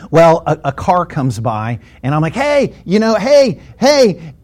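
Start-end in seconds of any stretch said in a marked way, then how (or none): 2.3-4.3 higher, hailing a passing driver; acted-out attention-getting calls; calling out. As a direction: flag someone down by voice. Flagging down a passing car.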